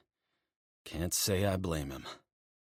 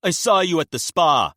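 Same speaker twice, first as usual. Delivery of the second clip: urgent revelation; 12 semitones higher, 10 dB louder than usual. Acted. Locken pressing leverage.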